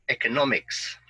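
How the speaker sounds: "economics" with the stress on NOM: e-co-NOM-ics; "economics" modelled for students, NOM stressed; model word stress. Shown as a demonstration. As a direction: say "economics" clearly and lean on the third syllable NOM. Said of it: "listen and repeat after me".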